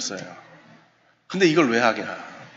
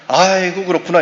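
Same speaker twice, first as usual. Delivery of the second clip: quick hollow "oh, I see" to end the talk; mock offhand reply, a bit louder; brush-off sympathy; 3 semitones higher, 5 dB louder than usual. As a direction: toss off the sympathy and turn away. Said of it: "이러고 돌아서 가요".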